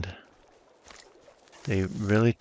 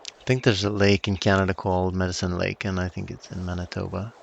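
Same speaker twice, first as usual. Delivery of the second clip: tipsy rambling; 3 dB quieter, faster than usual. Real, not acted. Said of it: "But I'm super drunk right now".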